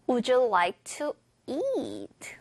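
slow model phrase, pitch going up on "eat"; rising tune on eat. Shown as a demonstration. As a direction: lift "eat" upward after an even lead-in. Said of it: "올라갈 거고요".

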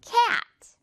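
cat high and emphatic, stretched to "ke-at"; long gliding A in cat; rubber-band cat. Shown as a demonstration. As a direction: really pull out the vowel of cat. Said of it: "입을 고무줄처럼 늘어뜨려야 돼요".

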